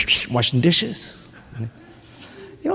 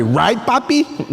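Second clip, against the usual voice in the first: put-on slow, coaxing little-girl question; lightly voiced toddler checking with dad; a hint of a sweet daughter asking; imitating toddler asking; 4 semitones higher, slower than usual. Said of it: "then she looks at me".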